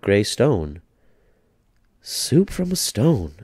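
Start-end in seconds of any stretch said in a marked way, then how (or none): 2.0-3.4 put-on high, slow, amazed old lady; old woman marvelling, higher and slower; little old lady, marvelling. A narrator's reading. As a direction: savour the wonder of it. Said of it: "said the little old lady".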